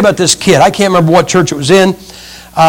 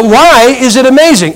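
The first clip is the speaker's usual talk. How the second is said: exasperated asking again; 4 semitones higher than usual. Retold or imitated. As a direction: press him for an answer, losing patience. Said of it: "I said".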